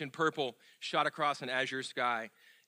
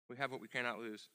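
softer repeat; 3 semitones lower, 10 dB quieter than usual. Real, not acted. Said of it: "repeated softer".

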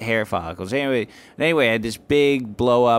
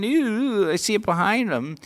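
imitated disgust; 11 semitones higher, faster than usual. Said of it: "people are going".

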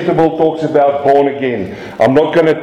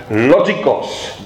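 slow Greek pronunciation of "logikos"; careful attempt at a Greek accent; 3 semitones lower, slower than usual. Shown as a demonstration. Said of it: "say that in a good accent".

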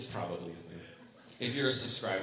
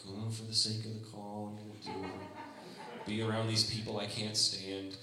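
begrudging grumble. Retold or imitated. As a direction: drag the words, unwilling. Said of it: "begrudgingly participating in the world, like".

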